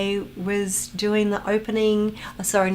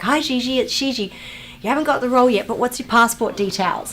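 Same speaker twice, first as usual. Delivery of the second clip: higher, louder imitation of a caller; assistant on the phone; 5 semitones higher, 5 dB louder than usual. Assistant phones an actress for passport details, imitated high and loud. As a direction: mimic the assistant's bouncy phone call. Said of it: "She's like".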